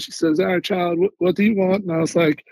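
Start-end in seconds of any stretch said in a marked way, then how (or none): 0.4-1.8 lightly voiced Southern lady; Southern accent. Southern cafeteria worker asking a new soldier what he wants, in a mild Southern accent. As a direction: imitate a Southern lady's accent. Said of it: "she's very Southern accent".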